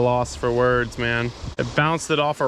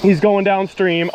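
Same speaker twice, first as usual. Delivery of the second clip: alarmed; 3 semitones higher, 6 dB louder than usual. Real, not acted. Fish running downstream.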